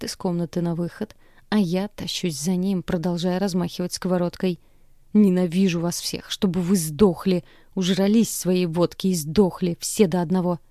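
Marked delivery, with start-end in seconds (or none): 5.1-10.6 angry raised voice; furious shouting; raging. Acted. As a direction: curse them all. Girl screams at drunks.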